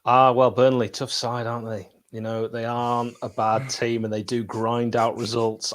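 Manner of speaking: lightly voiced gruff football manager; a hint of a manager's dour press talk; Dyche impression. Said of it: "I'm not doing a Dyche impression".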